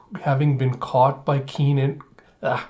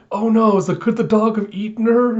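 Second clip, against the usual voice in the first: high-pitched mock alarm; acted panic; 8 semitones higher, 3 dB louder than usual. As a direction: fret aloud over a dreadful thought. Yor imagining dog eating Anya.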